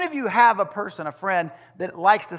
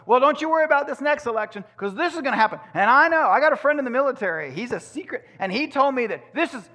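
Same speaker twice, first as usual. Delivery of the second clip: higher, louder, fast breathless insistence; excited conspiracy talker; 5 semitones higher, 3 dB louder, faster than usual. Retold or imitated. Preacher mimicking a friend hyping election rumors. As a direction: rush it like gossip you can't hold in. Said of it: "another one comes up".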